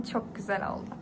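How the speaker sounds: "Çok güzel oldu" whispered, unvoiced. Real, not acted. Showing off the finished hair.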